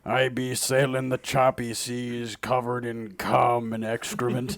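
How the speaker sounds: gruff pirate talk. Acted. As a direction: talk like a sea dog. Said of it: "I love doing the pirate voice".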